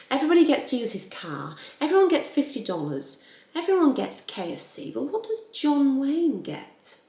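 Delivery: acted-out annoyance, each complaint punched at the start; mildly hammed-up aggrieved rant; mock frustrated. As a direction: list the grievances in a rising, put-upon pitch. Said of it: "John is feeling very frustrated, very annoyed".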